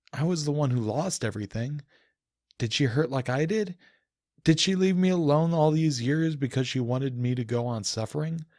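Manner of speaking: from bitter brooding to open fury; rising anger. Acted. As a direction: let the resentment climb line by line. Inner monologue rising to rage.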